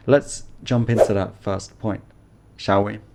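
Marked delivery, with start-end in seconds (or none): 0.1-2.0 conspiratorial whisper; playful stage whisper. Real, not acted. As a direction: lean in and whisper it. Teacher whispers a playful aside.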